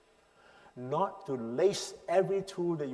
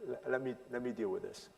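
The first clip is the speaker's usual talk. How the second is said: demo handing over; 8 dB quieter than usual. Shown as a demonstration. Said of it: "give permission for the other person to say".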